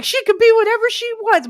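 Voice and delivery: high, loud, insistent protest; sticking up for her, high-pitched; indignant teen voice. Retold or imitated. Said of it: "I was just like".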